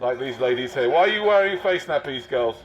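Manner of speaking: lightly voiced officious marshal addressing the public; a touch of a self-important volunteer marshal; pompous covid marshal. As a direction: announce the rules like a smug official.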